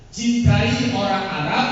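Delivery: slow, loud preaching emphasis; emphatic command. Real, not acted. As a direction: drive the command home.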